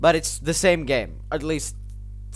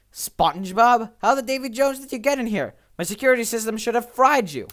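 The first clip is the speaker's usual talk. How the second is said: high startled cartoon villain; shocked villain; 7 semitones higher than usual. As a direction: squeal it out in disbelief.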